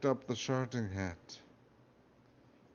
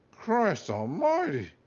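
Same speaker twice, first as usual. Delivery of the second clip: failed Scottish accent; 6 semitones higher, 4 dB louder, slower than usual. Shown as a demonstration. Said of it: "I can't do Scottish".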